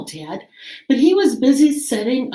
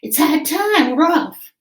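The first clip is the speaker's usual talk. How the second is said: pirate announcing. Acted. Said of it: "he announced".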